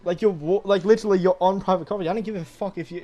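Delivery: high, loud, indignant yelling at the workers; angry outburst. Retold or imitated. Telling off the pole crew for trespassing, high angry shout. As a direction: let the outrage burst out high and loud.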